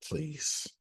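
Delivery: a hushed, breathy please; quiet plea. Shown as a demonstration. Preacher demonstrating the powerful prayer, hushed and pleading. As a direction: barely voice it, humbly. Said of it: "Let me give you the most powerful prayer again".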